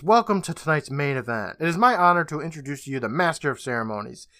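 lightly voiced show announcer, slowing at the end; retold big-top introduction, only mildly projected; mock ringmaster yell. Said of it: "and a voice yells".

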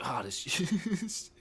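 slow, drawn-out mock savor; slow contented food remark. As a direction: linger over the cheese slowly. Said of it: "Or I'll be like".

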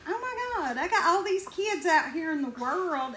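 high-pitched dawning dismay, hammed-up; mock alarm. Mom realizing what her kids mispronounce, mock-alarmed. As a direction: let a high "Oh my God" ease down into worry.

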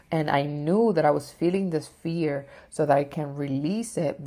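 ordinary talk, nothing marked

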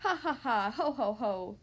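mock storybook pig laughter; acted laughing. A narrator's reading. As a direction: read out the pigs' light mock laughs. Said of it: "laughed the two little pigs again".

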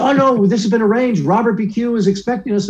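put-on a thirteen-year-old insisting it's arranged; pleading kid. Kid begs the doorman at the stage door, high and eager.

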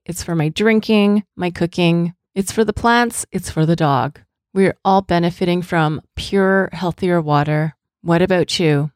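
steady, polished host-read advertisement; sponsor ad read. Acted. Host pitches water purifier to listeners, ad read. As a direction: read it as a personal podcast endorsement.

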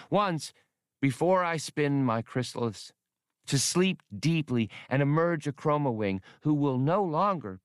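dreamy little creature confiding a wish; alien Skinks voice. Acted.

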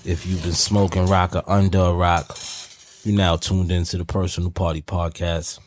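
booming showman intro, big announcer style; ringmaster. Acted. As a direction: roll it out like a circus ringmaster. Opens the podcast like a showman.

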